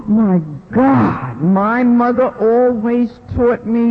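real tears rising in the voice; tearful. Real, not acted. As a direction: voice catching on a sob. Moved to tears recalling.

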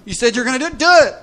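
high, urging executioner. Acted. Ego's executioner urging Rambo, high eager voice. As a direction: egg him on to kill. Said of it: "the executioner says".

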